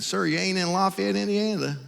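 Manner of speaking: a hint of a Southern desk clerk; friendly Southern accent, lightly imitated. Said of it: "she said with a nice Southern accent".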